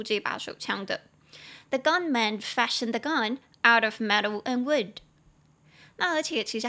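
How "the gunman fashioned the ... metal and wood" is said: slow, careful English model sentence; slow model reading. Shown as a demonstration. Teacher reading the model sentence aloud to students, slow and clear. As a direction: read it slowly and clearly for learners. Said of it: "你可以来到我们的第二句".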